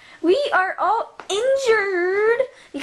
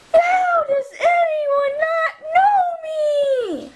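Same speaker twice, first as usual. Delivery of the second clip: higher, indignant cry; be insulted nobody knows you; outraged disbelief; 9 semitones higher than usual. Pretend. Commander Rex offended to be unknown, indignant.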